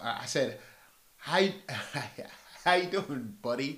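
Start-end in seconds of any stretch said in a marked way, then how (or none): 1.2-3.8 polite salesman greeting, lightly put on; white voice. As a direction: friendly pitch to a stranger. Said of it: "Put on my white voice".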